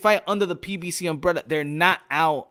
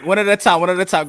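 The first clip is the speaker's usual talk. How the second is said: calling out; 5 dB louder, faster than usual. Real, not acted. Moderator restores order in crosstalk.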